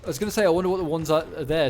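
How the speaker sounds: talking through a yawn; words stretched by a yawn. Real, not acted. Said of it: "Sorry, apologies for yawning".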